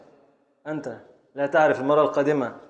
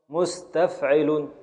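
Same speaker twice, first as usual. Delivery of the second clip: slow scansion; 3 dB quieter, much slower than usual. Shown as a demonstration. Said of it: "يبقى نقف على الشين".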